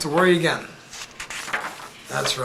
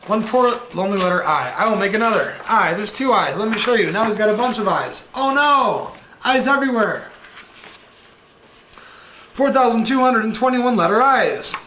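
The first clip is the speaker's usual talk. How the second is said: Count counting; 4 semitones higher than usual. Acted. Voices the Count counting I's.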